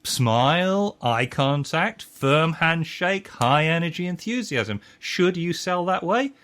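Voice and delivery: sales trainer hype. Retold or imitated. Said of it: "sales trainings that say".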